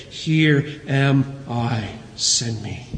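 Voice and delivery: slow, laboured words sinking low; in pain. Retold or imitated. Preacher voices Isaiah answering God with burnt lips, mildly pained. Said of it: "it was in pain that he said".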